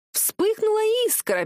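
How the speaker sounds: high mocking echo of the father's words; mocking mimicry. A narrator's reading. Daughter mocks father's cliché, mimicking him high. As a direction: parrot him back, sneering and high. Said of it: "передразниваю я".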